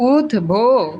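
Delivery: উদ্বো broken slowly as ud, bo; ব sounded. Shown as a demonstration. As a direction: stretch the bo in উদ্বো. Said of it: "এই যে ব উচ্চারিত হইছে".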